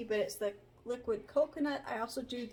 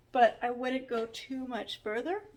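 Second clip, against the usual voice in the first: talking through a yawn; words stretched by a yawn; 3 dB louder than usual. Real, not acted. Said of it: "Sorry, I'm yawning".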